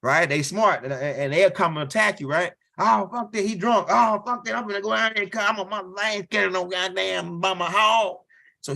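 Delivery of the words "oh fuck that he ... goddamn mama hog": put-on drunk bravado. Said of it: "drunk partner's reply".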